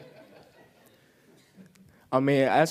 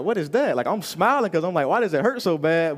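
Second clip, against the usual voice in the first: high, startled cry of pain; pained surprise; 4 semitones higher than usual. Retold or imitated. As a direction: wince while playing it off. Doctor twists injured knee.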